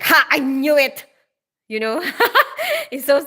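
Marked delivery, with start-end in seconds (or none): 0.0-1.0 louder gotcha exclamation; acted burst of triumph; triumphant reader. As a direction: crow over a solved mystery. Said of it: "and then you get to the end and you're like".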